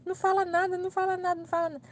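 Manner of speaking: high, softening imitation of frantic begging; embarrassed pleading. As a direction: plead repeatedly in a high, mortified voice. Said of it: "Ela morrendo de vergonha".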